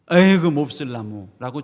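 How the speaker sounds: loud mock grumble at a tree; exasperated dismissal, opening with a burst; acted disgusted curse; Jesus cursing. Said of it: "주님이 저주를 했단 말이에요".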